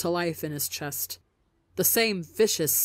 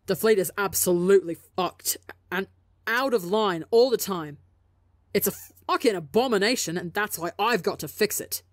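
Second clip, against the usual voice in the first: angry; 2 semitones higher, 3 dB louder than usual. Acted. Angry rant about the fleet.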